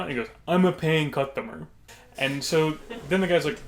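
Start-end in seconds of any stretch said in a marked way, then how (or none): 0.5-1.7 repeated for emphasis in a put-on voice; insistent customer impression. Odd man repeating himself to the puzzled worker, insistent impression. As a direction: imitate the odd customer, pressing the point. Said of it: "It's how he sounded".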